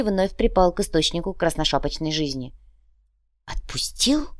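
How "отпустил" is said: high, incredulous question; can't believe he was let go; disbelieving. Acted. Marker to the troll, in high disbelief. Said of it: "не поверил Маркер".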